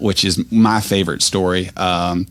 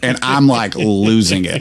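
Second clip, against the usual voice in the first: ordinary talk, nothing marked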